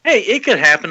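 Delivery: upbeat optimistic quote; quoting a hopeful friend. Retold or imitated. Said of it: "he's like".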